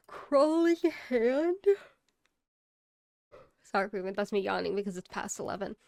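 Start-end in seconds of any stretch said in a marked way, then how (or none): 0.1-1.7 high, slow disbelieving question; Crawling Hand? stretched out, high and rising; incredulous. Real, not acted. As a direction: say the title like you can't believe it. Incredulous at the movie title.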